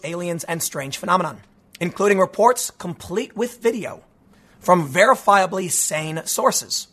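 measured, deliberate article reading; news read. Acted. Host reading a newspaper's UFO report to listeners, measured news read.

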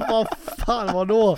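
high, loud, baffled exclamation; startled reaction. Retold or imitated. Teller reacting to his friend's warning, loud and startled. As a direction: act out being caught off guard.

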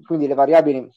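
saliva down the wrong way; choking slightly while speaking. Real, not acted. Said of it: "dato di traverso la salina". (mi va di traverso la saliva)

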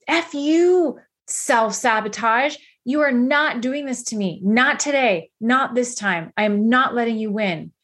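half-strength retold yell, emphatic on each refusal; retold yelling at yourself. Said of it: "Yell at yourself".

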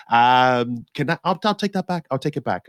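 high, hesitant mock retreat; sheepish backtrack. Taking his script back from producers, hesitant and sheepish. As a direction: play it like snatching a script back.

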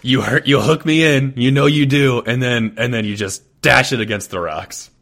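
high, loud complaint easing down; loud exasperation. Real, not acted. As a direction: protest loudly, then settle as you finish. Loud mock exasperation at teammate's twist.

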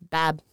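"Bab" with a bleating short a; goat bleat. Pretend. Woman mocking goat-faced cheater, bleating "Bab". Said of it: "I gotta say it like that".

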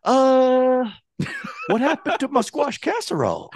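high-pitched mock outrage, drawn-out opening; accusing. Co-host imitating friend confronting wife about casserole, accusing. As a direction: demand an answer in a hammed-up high voice. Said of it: "like, that accusing voice".

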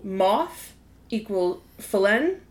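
Felin said slowly with a nasal French ending; French pronunciation. Shown as a demonstration. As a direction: say Felin the French way, slow and careful. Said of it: "I'm saying it incorrectly".

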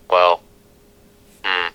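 ordinary talk

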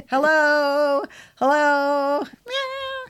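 high, mock cat calling hello; be the cat asking for food.

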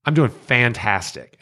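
"I'm doing fantastic" with fantastic drawn out slowly; emphasized fantastic. Shown as a demonstration. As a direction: lean hard on "fantastic". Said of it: "And I emphasize it".

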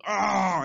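drawn-out demon "aah"; imitated demon cry. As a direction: mimic a demon's wail. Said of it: "someone manifested a demon".

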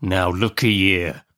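slow, rough-spoken convict menace; menacing convict. Acted. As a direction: lean slowly on each word like a threatening convict.

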